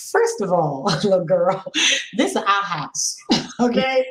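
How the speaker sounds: half-laughing mock scold at her daughter; chuckling through a stern telling-off. Mother laughing while scolding her teenage daughter. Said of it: "I'm like".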